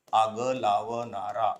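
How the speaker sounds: आग लावणारा said slowly, each syllable drawn out; slow syllable drill. Shown as a demonstration. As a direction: spell out आग लावणारा slowly for the class. (हळू, अक्षर अक्षर उच्चार)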